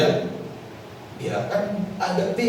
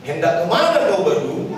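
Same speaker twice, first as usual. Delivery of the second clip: Batak accent. Shown as a demonstration. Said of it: "Jangan salah penekanan".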